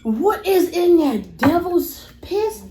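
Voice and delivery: slow, pained, talking through burn; mouth burning from spicy food. Real, not acted. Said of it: "My gum is on fire".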